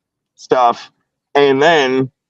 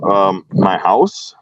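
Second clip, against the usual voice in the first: whispering; 3 semitones lower, much slower than usual. Retold or imitated. Timid answer to the officer.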